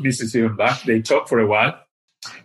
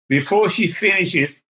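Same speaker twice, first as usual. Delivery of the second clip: usual speaking voice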